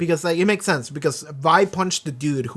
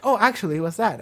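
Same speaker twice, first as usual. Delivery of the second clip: bright, higher and pleased with herself; a little proud correction, voiced higher; proud know-it-all; 4 semitones higher than usual. Caitlyn proudly correcting her peers, higher voice. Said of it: "proud as she says it".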